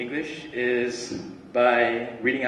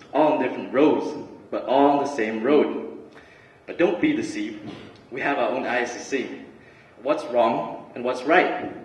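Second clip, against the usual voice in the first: rhythmic spoken-word recital with deliberate pauses; spoken word poetry. Acted. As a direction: recite it like a poem, landing on each rhyme. Recites own spoken word poem.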